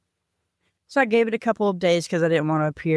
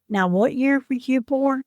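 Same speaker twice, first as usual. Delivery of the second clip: kind fatherly voice; 8 semitones higher than usual. Retold or imitated. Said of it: "You could hear the kindness in his voice".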